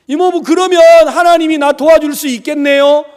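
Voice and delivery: high, loud voice of a delighted niece; acted-out hope, pitched well up; brightly hopeful. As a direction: imitate a child's eager, innocent question. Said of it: "해맑게 웃는 거예요".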